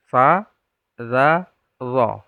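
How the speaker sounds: clear, careful Arabic letters; letter sounds demo. Shown as a demonstration. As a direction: say each letter slowly and clearly. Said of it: "Jadi itu sama makhrajnya". (mengucapkan huruf dengan jelas)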